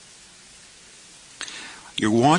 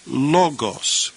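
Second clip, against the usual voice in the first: "Logos" as LO-gos, falling at the end; stress on first syllable; 3 semitones higher than usual. Shown as a demonstration. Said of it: "accent occurs over the first syllable".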